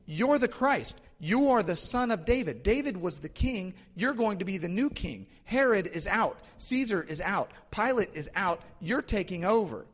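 high, emphatic acted proclamation; proclaiming. Bartimaeus declares Jesus king with Roman soldiers around, proclaiming boldly. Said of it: "starts proclaiming the identity of Christ".

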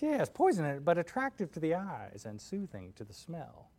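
scheming witch, slowing down; Wicked Witch. Acted. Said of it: "she says".

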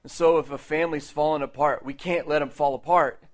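loud, emphatic preacher driving it home; forceful preaching. Real, not acted. Preacher rallying the church to stand up and say no, forceful preaching.

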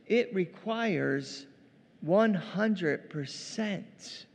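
each word spelled out very slowly; slow emphasis. Real, not acted. Preacher driving home the point.

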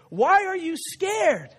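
slow, high, drawn-out question; storybook parent bear asking with exaggerated concern; Big Bear. A narrator's reading. Big Bear asking his cub about fear, slowly questioning. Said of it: "So Big Bear says".

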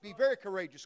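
shouted high and loud, fading down; preacher thundering the verse at the crowd; booming shout. Acted. Preacher rallying the church with a booming shout.

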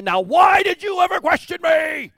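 mock stern God. Preacher mocking the God we expect, hammed-up scolding. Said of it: "God's gonna say".

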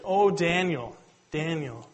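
mildly anguished call, falling away; mock anguished cry. King crying out for Daniel at the den, mildly anguished. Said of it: "he cries out in anguish".

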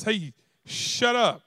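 very slow, lightly scolding hush; parent hushing. Retold or imitated. Adult hushing kids at a friend's house, slow mild scold. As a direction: stretch it out like a tired parent. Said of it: "Then somebody else".

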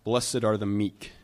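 measured, solemn reading; scripture reading. Real, not acted. Pastor reading Matthew five to the church, solemn. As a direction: read the verses with weight.

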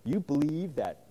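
incredulous mockery. Festus scoffing at Paul's resurrection claim, slow mocking disbelief. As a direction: scoff at the very idea, drawing it out. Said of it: "what he's saying is".

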